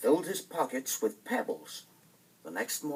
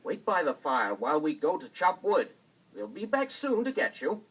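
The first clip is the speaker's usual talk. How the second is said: falsely kind stepmother; 5 semitones higher, 5 dB louder than usual. Acted. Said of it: "the stepmother said".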